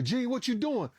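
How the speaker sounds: high-pitched, startled prompt; retold urgent call. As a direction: reenact someone snapping a helper out of it. Retold call to frozen helper.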